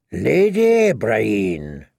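very slow and deliberate; firm correction. Acted. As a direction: lay out each word with weight. Brienne corrects him firmly.

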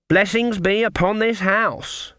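high, slow, put-on blessing; proclaimed blessing. Granny bursting in on the sisters, high proclaiming voice. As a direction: intone it grandly, drawn out and high.

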